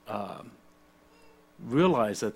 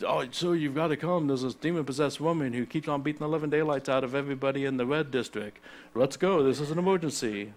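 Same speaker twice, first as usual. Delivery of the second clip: higher-pitched, hurried mock emergency summons; mock urgency; 3 semitones higher than usual. Acting out an emergency call to Nicodemus's men, mock urgent. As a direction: act out a breathless-news summons, hammed-up.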